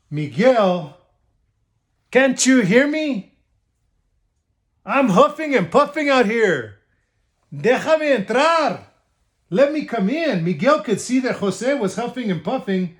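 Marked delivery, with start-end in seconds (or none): 0.1-10.4 pleading wolf. Acted. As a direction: beg to be let in, worn out. Tired wolf begging entry.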